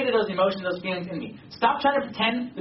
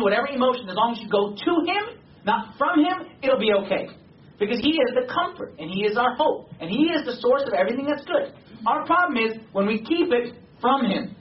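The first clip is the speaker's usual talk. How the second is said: emphatic, raised-pitch sermon delivery; impassioned preaching; 5 semitones higher than usual. Real, not acted. Preacher urging the congregation to go to God, impassioned. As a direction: drive each contrast home, pitch climbing on key words.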